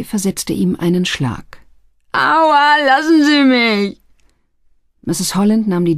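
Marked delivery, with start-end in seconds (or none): 2.1-4.0 high, pleading cry after a blow; pained yelp. Acted. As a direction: yelp high and beg to be let go. Youth struck by Mister Barry. (hoher, flehender Schmerzensschrei)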